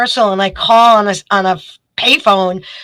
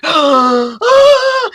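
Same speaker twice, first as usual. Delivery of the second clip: startled yelp; 6 semitones higher than usual. Retold or imitated. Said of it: "and I'm like".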